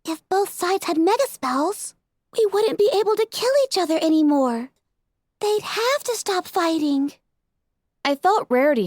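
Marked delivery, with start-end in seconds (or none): 0.0-7.1 earnest through tears; determined Fluttershy. A narrator's reading. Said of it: "fierce determination shining".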